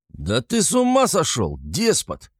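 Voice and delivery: high-pitched outraged exclamation; incredulous roar without real volume; mock-subdued roar. A narrator's reading. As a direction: rage at a despot, voice leaping up. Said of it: "заревел Разумихин".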